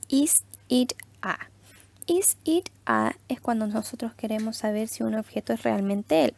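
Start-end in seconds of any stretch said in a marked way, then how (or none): 0.1-1.4 whispered model. Shown as a demonstration. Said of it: "Otra pregunta que les había presentado". 2.1-3.2 higher slow model. Shown as a demonstration. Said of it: "Otra pregunta que les había presentado".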